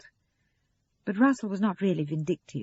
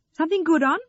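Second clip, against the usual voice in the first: high, louder chirpy question; bright; 10 semitones higher, 8 dB louder, faster than usual. A narrator's reading. Sarah relieved about her mother's evening, bright. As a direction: ask brightly, pitched up. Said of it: "asked Sarah brightly".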